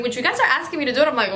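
ordinary delivery

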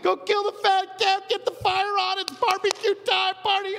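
high, loud, gleeful party host; overjoyed father shouting party orders; party-happy father. Retold or imitated. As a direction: boom it out like a dad calling the barbecue. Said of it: "And the father's like".

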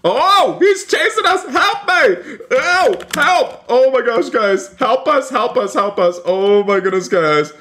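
high-pitched squealing alarm; hammed-up terror, voice shooting up; play-acted panic. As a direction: scream for help as if being chased. Chased again, begging for help.

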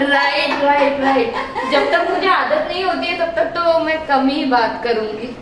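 careful mouth with braces; talking with new braces. Real, not acted. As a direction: lips held over brackets. Seen 0: Brackets glimpsed on teeth when she smiles; mask is down at chin.

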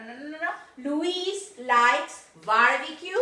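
no no no, then Luis likes barbecue stressed; teacher correcting her example; correcting herself. Shown as a demonstration. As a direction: correct the model sentence.

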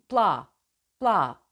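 pla with p popping straight into la, no vowel between; tight consonant cluster. Shown as a demonstration. Coach demonstrating the correct pla. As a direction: let p burst then la. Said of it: "P patlasın, arkasından la gelsin".

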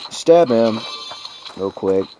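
flat robot voice from being sick; monotone robot voice while sick. Real, not acted. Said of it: "Sound like a robot, 'cause that's what I do when I'm sick".

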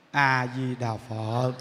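slow, low, calm A Di Đà Phật; calm recitation. Shown as a demonstration. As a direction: breathe out A Di Đà Phật slowly and evenly. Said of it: "Vừa biết chuyện cái là mình". (niệm A Di Đà Phật chậm rãi, trầm tĩnh)

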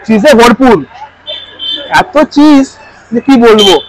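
talking between bites; speaking while eating snack; mouth full, chewing. Real, not acted. Seen 0: Ate a bite just before; mouth working, food tray still in hand.

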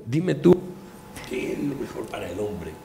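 put-on Midas with a light Andalusian accent. King Midas complains to Sileno, lightly Andalusian accent. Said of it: "Midas con acento andaluz a Sileno".

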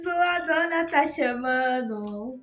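slow, drawn-out dog-calling coo; teasing slow pet call; slow puppy call. Acted. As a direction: stretch it out to tease. Repeating dog call slower.

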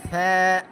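সা with a soft lisping onset. Shown as a demonstration. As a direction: soften the first sound of সা, vowel held. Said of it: "সা নরম করো". (সা নরম করে)

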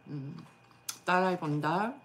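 talking between chews; muffled by food in mouth; mouth full, chewing. Real, not acted. Seen 0: Bite taken at -2.0; lips pressed, chewing between words until 1.3.

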